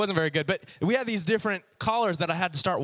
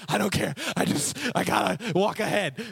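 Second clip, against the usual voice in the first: stubborn dog; 3 semitones higher than usual. Acted. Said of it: "Odie was so stubborn".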